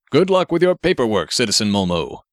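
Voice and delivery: a hint of a stiff formal hero voice; lightly voiced superhero. Grenade Man instructing Marv from the robot, lightly heroic voice.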